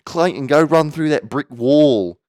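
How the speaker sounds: slow, loud goading shout; mock hyped-up brother. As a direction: drag out the dare, cheering him on. Brother egging Clayton on.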